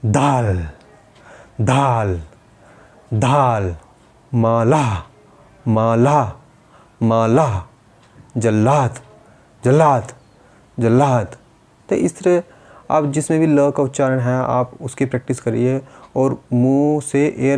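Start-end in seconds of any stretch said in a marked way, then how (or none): 0.1-11.4 दाल, माला, जल्लाद each said with a firm mouth l; clear l practice words. Shown as a demonstration. Therapist models practice words with a firm l for pupils. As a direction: push air through the mouth on each ल. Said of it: "इसी तरह आप शब्दों की practice करें".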